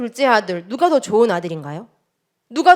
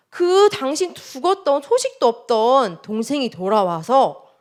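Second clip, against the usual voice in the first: servant's slow report, starting high; a hint of a servant delivering news; lightly voiced servant; 5 semitones higher, slower than usual. Servant answering the elder brother, slowly and deliberately.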